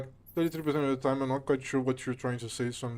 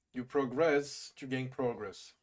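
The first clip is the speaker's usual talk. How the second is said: very slowly, first progress stressed on GRESS, last progress on PRO; verb-noun stress contrast; much slower than usual. Shown as a demonstration. Streamer testing a correction, slowly stressing verb progress late and noun progress early. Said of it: "last syllable when using it as a verb".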